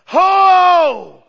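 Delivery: a loud, high-pitched call across the crowd; crying out. Acted. Jesus calling to the festival crowd, loud cry. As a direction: call it out like a herald at the feast. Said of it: "And he cried out".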